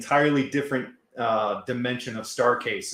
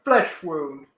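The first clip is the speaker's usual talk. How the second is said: Black Knight quote; 11 semitones higher, 6 dB louder than usual. Retold or imitated. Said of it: "Monty Python and the Holy Grail".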